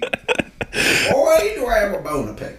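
high, prim white-guy voice; pinched, indignant white guy. Acted. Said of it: "White voice, please".

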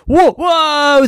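high, loud yelp of shock; astonished cry. A narrator's reading. Maven hearing a bear talk, astonished high yelp.

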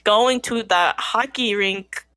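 slow, attempted Canadian accent. Shown as a demonstration. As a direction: lay on a joke Canadian accent slowly. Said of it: "Steph, do a Canadian one".

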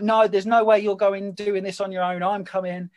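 lightly imitated loud, insistent stepdad; retold protest, starting high and loud. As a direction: play your stepdad refusing to be left out, without the accent. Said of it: "he's like this really loud Geordie".

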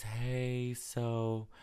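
mild imitation of a mechanic letting him down; quoting the mechanic. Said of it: "And she says".

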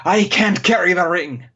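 hammed-up heroic hobbit plea; Sean Astin. Podcast host as Sam rallying Frodo, hammed-up devotion. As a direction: strain upward into a big movie declaration. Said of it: "that was Sean Astin".

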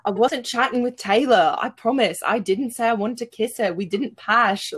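a lightly voiced Grant making pleading excuses; mock the guilty boyfriend's protests, only lightly shifted; half-hearted imitation of Grant denying he cheated; mimicking Grant. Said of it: "mimic Grant and be like".

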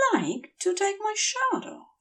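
high, soft fevered voice; dazed request. A narrator's reading. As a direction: ask vaguely, drifting. Feverish Aziraphale speaks.

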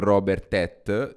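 "Robert Tet" read literally, as it is spelt; lettura letterale. Shown as a demonstration. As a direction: say "Robert Tet" slowly, letter-faithful, unsure of the French. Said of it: "Ve la leggo letteralmente". ("Robert Tet" letto lentamente, così com'è scritto)

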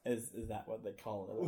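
lightly put-on molasses-mouthed Southern accent; Southern belle character. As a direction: softly play a Southern belle. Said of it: "we just heard a new character".

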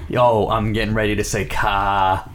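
mocking Boston accent, final word drawn out; hammed-up Boston accent; thick put-on Boston. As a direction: lean heavily on a Boston "ka". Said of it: "the thick put on for no reason".

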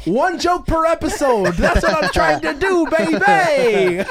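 laughing. Real, not acted. Joking brag while laughing.

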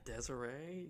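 whispered name check; softly whispered question. Real, not acted. Whispered reply.

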